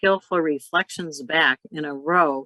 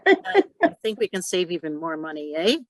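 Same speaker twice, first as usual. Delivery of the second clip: mimicking Canadian students, half laughing; 2 semitones higher than usual. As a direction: tack a laughing "eh" onto the end, Canadian style. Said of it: "we're cutting out the A at the end".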